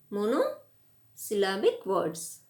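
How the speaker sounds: monosyllabic words said slowly, each syllable spelled out; slow down and lay out monosyllabic words for the class; slow repeat. Shown as a demonstration. Teacher repeating the key term for students, slow and deliberate.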